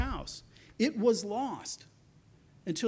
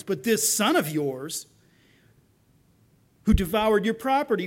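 louder, indignant protest to his father; angry complaint; 6 dB louder than usual. Acted. Older brother refusing to come in, loud and resentful. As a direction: throw the grievance at the old man.

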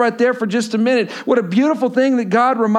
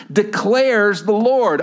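"declares" drawn out slowly; stress on declares; much slower than usual. Real, not acted. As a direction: linger on "declares the Lord". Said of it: "I love this next word".

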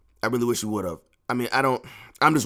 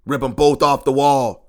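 louder, real frustrated shout; angry outburst; 3 semitones higher, 8 dB louder than usual. Real, not acted. A fan fed up with his team, angry outburst. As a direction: let the anger burst out on the wall.

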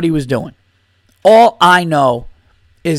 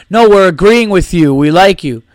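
mock heckler; 4 dB louder than usual. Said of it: "He goes".

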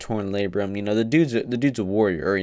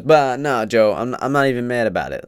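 defensive denial; 3 semitones higher, 4 dB louder than usual. Retold or imitated. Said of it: "he goes".

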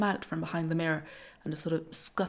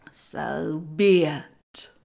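very slow, loud, ominous verdict; ominous goddess; 8 dB louder, much slower than usual. Acted. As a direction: pronounce it like doom. Disguised goddess answers.

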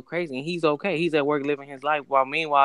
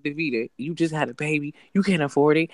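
inner voice rant. Retold or imitated. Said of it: "this is exactly what I said".

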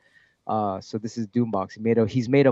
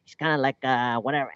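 imitated Filipino accent, pitched up; Filipino accent impression; 2 semitones higher than usual. Musician showing how his vocoder guy talks, imitated Filipino accent. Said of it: "he has a, a, like, a, a Filipino accent".

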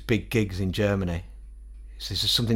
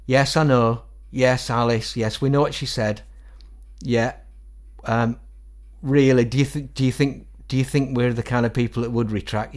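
bandmate on the phone; 3 semitones higher, 3 dB louder than usual. Retold or imitated. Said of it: "I remember the phone call just from Dunstan's side".

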